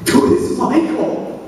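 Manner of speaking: slow, breathless whisper of awe; stunned schoolboy whisper; awed whisper. Retold or imitated. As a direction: whisper it like you can't believe it. Awed by a call from Michael.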